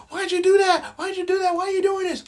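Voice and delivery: squeaky falsetto pleading; hammed-up high-pitched woman asking why; mock woman's voice. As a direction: play her as a shrill, hurt victim. Mocks victim in squeaky voice.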